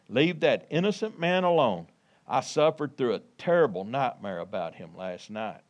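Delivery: measured, emphatic Bible reading; scripture reading. Acted. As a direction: read the verses out to a congregation. Reads scripture to congregation.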